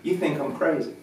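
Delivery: light teasing at normal volume; playful, not mean. Retold or imitated. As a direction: tease him gently, smiling. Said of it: "I didn't say it mean".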